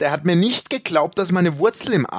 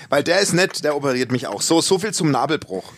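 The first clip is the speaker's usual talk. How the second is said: normal talking voice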